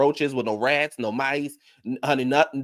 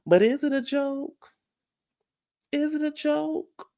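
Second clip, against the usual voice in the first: incredulous challenge; slower than usual. Real, not acted. Rhetorical challenge to the audience.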